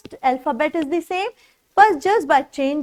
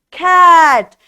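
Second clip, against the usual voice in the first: cat said out loud as one word after sounding it out; loud blended word; 2 semitones higher, 8 dB louder than usual. Shown as a demonstration. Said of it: "C A T".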